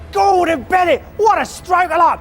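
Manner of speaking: put-on high, shouted Cockney geezer accent; Cockney gangster accent. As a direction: bellow it like a hammy Cockney gangster. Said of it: "show my legendary Cockney gangster geezer accent".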